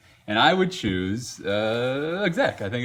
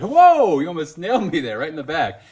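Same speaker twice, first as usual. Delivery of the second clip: retold yell; 7 semitones higher, 8 dB louder than usual. Retold shout at sound guy.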